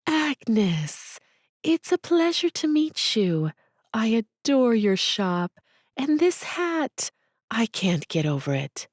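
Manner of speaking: high, breathless gush on this hat; gushing delight. Acted. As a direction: swoon over the shop like a starstruck fan.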